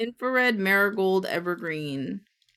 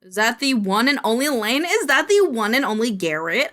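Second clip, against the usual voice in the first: playful announcer greeting; 4 semitones higher, 4 dB louder than usual. Real, not acted.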